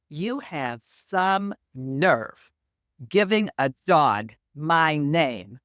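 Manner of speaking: mock-outraged cat telling off her owner; pissed-off cat. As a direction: drag it out like an offended cat. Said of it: "Bella is totally pissed off".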